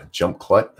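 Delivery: rising, disbelieving repeat of the caption; baffled echo; puzzled question. Real, not acted. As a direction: question what you just read.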